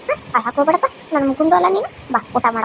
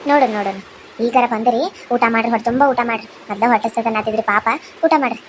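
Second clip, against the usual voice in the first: put-on old aunt role; 5 semitones lower than usual. Aunt welcoming orphans to eat.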